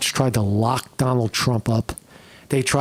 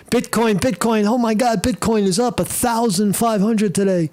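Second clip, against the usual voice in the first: excited; 7 semitones higher than usual. Real, not acted. Excited about the Bitcoin jump.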